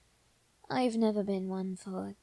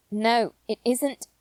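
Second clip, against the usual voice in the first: louder, slow, firm denial; emphatic, raised "No"; 2 semitones higher, 6 dB louder than usual. Acted. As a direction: cut off the wrong idea firmly.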